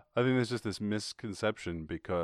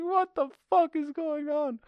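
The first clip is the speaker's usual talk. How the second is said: high, slow, confused cow; 6 dB louder, slower than usual. Retold or imitated. A cow running from the guard, high slow confused voice. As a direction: squeak it out like a bewildered cow. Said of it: "this cow's like".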